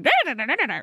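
mock robotic monotone; monotone drone. Shown as a demonstration. Showing her co-host how dull an AI copy of her voice might sound, in a droning monotone. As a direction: drone da da da on one note. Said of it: "'cause it's gonna be monotone".

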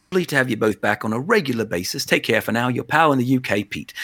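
light put-on Scouse sign-off; bad Liverpool accent. Podcaster closing UK pal's email, rough Liverpool accent. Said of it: "my bad accent was imitating".

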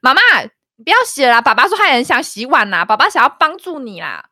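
playful shout to mom in the living room; loud call to the living room. Retold or imitated. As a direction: call out loudly so dad hears. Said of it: "超大声的在对着客厅说".

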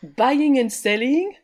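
scornful mock repeat; mocking echo. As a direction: echo his lame excuse with scorn. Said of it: "Oh, honestly".

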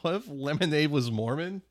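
laughing through the joke; high giggly delivery. Real, not acted. Joking about switchel, laughing.

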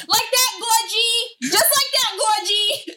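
high, slow sing-song mimicking mom; mock her baby talk, laughing; mocking husband's sing-song. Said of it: "he'll be like".

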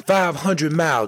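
high, urging call to the horses. Acted. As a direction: drive the horses on, voice lifted high.

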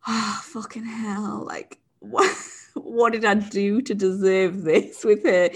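slow, half-laughing horse grumble; horse's lament. Retold or imitated. Imagined horse moaning in his stable, slow, laughing. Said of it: "Manny must go in a stable and go".

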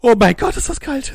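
high, loud shivering cry of cold; in ice cold water. Acted. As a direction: yelp at the freezing water. Character surfaces in icy lake.

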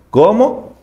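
sharp, high gasp of a question; a child's stunned cry of disbelief; shocked question. Acted. Remy hearing that Vitali died, high and shocked.

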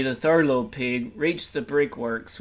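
ordinary delivery

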